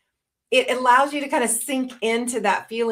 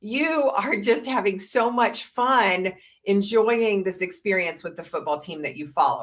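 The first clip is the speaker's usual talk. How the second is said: reflecting emotion. Shown as a demonstration. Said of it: "if I capture her emotion as well".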